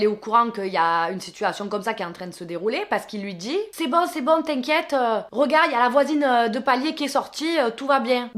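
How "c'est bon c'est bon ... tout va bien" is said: higher, hurried reassurance; mock reassuring. Neighbour calming his ex-wife on video: higher, mock reassuring. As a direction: brush it off, calming her down.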